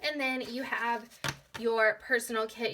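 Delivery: hoarse, fading voice; raspy whisper of a tired voice; losing voice. Real, not acted. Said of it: "I'm losing my voice".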